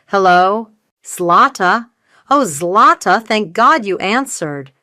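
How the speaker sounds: mother pours relief on her daughter, frantic. Acted. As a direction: rush out relief like she's drowning. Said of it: "a torrent of frantic relief".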